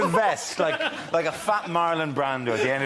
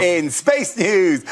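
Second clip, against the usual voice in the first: slow, grand, stress on space; booming space-news headline; louder dramatic announcer; much slower than usual. Acted. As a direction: lean hard on space like a big headline. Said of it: "Oh, I love saying this".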